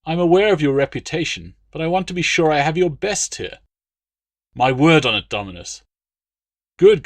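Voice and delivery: boastful Roman officer needling his friend; blustering legate. A narrator's reading. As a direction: bluster like a self-assured noble. Legate bargaining.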